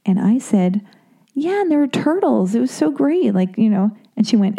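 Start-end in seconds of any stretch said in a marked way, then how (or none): 1.3-3.3 higher, eager imitation of an excited remark; retold enthusiasm. Telling the musician about the lake shrine, gushing. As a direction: gush it, pitched up.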